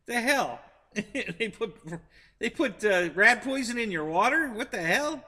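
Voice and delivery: can't believe what she's hearing; stunned what, rat poison; incredulous. Real, not acted.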